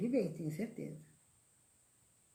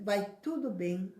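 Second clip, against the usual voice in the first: calm reassurance; slower than usual. Shown as a demonstration. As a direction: settle it gently. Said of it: "Fala assim".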